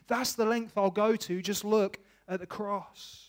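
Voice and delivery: a hint of a loving father calling out; God's voice. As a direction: speak as a passionate father. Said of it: "God points me to the cross and says".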